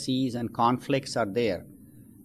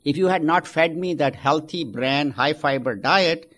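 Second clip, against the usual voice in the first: indignant complaint; 3 semitones higher, 4 dB louder than usual. Acted. Husband blames wife, punchline.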